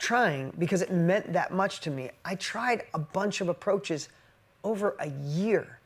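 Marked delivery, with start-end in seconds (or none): 2.2-5.8 choked up. Real, not acted. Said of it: "Sorry, I'm so emotional today".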